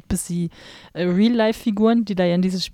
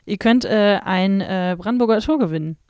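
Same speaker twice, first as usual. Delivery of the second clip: mock announcer; 3 semitones higher, 3 dB louder than usual.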